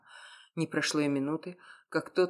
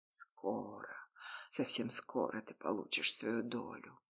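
much lower and much softer, calming; low soothing promise to his inner wolf; 5 semitones lower, 9 dB quieter than usual. A narrator's reading. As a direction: hush the beast inside like a pet. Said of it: "успокоил я его".

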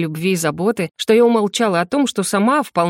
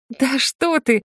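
laughing; 6 semitones higher, much slower than usual. Acted. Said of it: "рассмеялась я".

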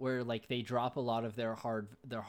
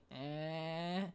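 higher, soft, drawn "eh"; imitated noncommittal sound; 4 semitones higher, 3 dB quieter than usual. Retelling Tim's answer about who's recording, imitated "eh". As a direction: imitate someone's wordless "eh". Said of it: "sound that sounded like".

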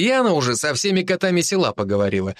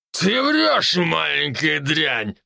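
put-on slow angry drunk; angry yell; 3 semitones higher, much slower than usual. A narrator's reading. Drunk man yells at the girl, angry. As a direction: snarl at the girl. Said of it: "прокричал разозлившийся мужчина".

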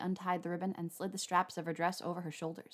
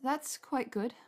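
higher, slightly unsteady; wobbling voice; 5 semitones higher, much slower than usual. A narrator's reading. Hermione praises the pear Draco fed her, voice wobbling. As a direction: let nerves wobble the voice a little. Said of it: "she said in a wobbling voice".

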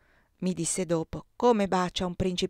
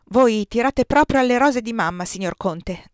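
put-on boy's higher, louder call; shouting; 3 semitones higher, 7 dB louder than usual. A narrator's reading. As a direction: call out loudly, then drop on the address. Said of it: "gridava Oscar". (gridando, con voce acuta)

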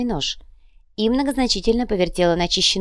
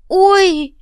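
very high, loud yelp of pain; sharp ouch; 9 dB louder than usual. Acted. Manager mid-sentence stabbed by pain, yelping loud. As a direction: cry out at the sudden stab.

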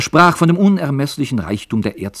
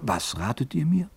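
indignant outcry; 5 semitones higher, 4 dB louder than usual. Acted. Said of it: "rief er".

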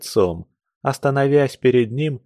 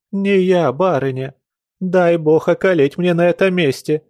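pleading peasant woman; 6 semitones higher, 3 dB louder than usual. A narrator's reading. Servant swearing.

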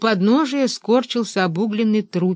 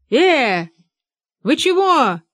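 startled shout, much higher and louder; 7 semitones higher, 5 dB louder, slower than usual. A narrator's reading. Benedikt shouting at the men above: startled yell. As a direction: yell up with ash in the eyes. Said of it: "крикнул Бенедикт".

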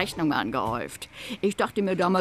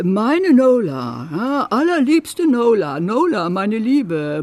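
mocking love letter; 4 dB louder, slower than usual. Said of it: "Da stand".

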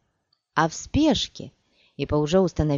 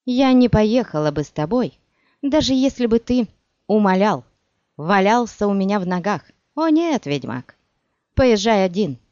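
loud, higher angry outburst; nearly shouting; 3 semitones higher, 6 dB louder than usual. A narrator's reading. Scorned sorceress nearly shouting at the witcher, loud and high. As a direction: let the hurt fury pour out loud. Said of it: "Она уже почти кричала".

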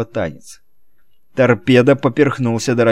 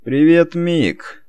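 bright, higher hello, then drops away; cheerful greeting; 6 semitones higher, much slower than usual. Acted. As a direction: call out a jolly greeting. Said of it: "жизнерадостно донеслось".

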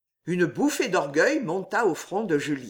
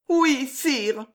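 s'écriant; 7 semitones higher than usual. A narrator's reading. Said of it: "s'écria Juliette dans un beau mouvement".

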